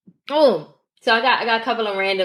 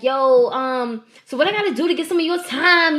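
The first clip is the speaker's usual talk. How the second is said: higher put-on smooth talker voice; imitating a fake-smooth flirt; 6 semitones higher than usual. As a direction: mimic her trying too hard to sound slick. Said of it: "she was talking like that".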